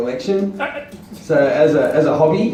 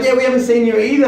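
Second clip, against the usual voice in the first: mimicking the council guys; 10 semitones higher, 4 dB louder, faster than usual. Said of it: "And they're like".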